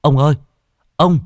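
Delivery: high, loud, breathless cry of alarm; panicked calling. A narrator's reading. Young Cu Chi runs in crying out to old Trình in alarm. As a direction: call out in a whimpering panic. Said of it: "mếu máo".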